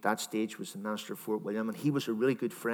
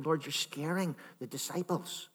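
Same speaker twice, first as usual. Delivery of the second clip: imagined pleading Peter; 5 semitones higher than usual. Pretend. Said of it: "maybe he said to him".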